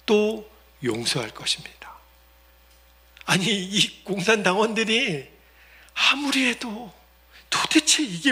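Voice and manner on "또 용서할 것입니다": soft, unvoiced promise; elder quietly vowing to forgive; tender whisper.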